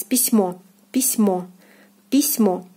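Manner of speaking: письмо with a stressed, open O; Russian word pronunciation. Shown as a demonstration. Teacher models письмо for learners, clearly. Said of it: "the word is pronounced as".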